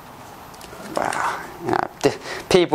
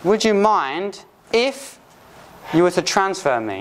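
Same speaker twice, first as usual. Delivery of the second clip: "Would you mind if" drawn out very slowly and higher; slow, higher request; 4 semitones higher than usual. Shown as a demonstration. Teacher modelling a phone request slowly and higher. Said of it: "So, transferring me".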